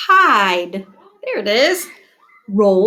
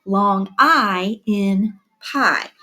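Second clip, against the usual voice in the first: slow sing-song reading of the rhyme; children's rhyme, said deliberately; poem recital; slower than usual. Shown as a demonstration. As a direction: recite the class poem slowly. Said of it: "our poem about I".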